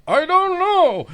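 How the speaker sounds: squeaky high, unsure; high mock reply. Mimicking his friend at the phone, high unsure voice. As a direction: pitch it way up and shrug.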